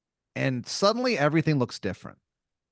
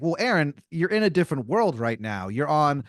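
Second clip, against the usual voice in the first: grand fighter; 3 semitones higher, 3 dB louder than usual. Acted. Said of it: "He's like".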